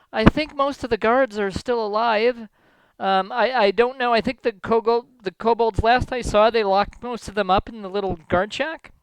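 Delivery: lightly voiced, hesitant mayor. The mayor reporting on the guards, lightly acted worry. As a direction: play an unsure mayor, a touch agitated. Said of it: "the mayor actually chimes in and says".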